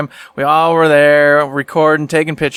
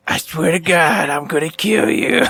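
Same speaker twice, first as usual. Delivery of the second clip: laughing threat. Retold or imitated. Quoting wife's mock threat.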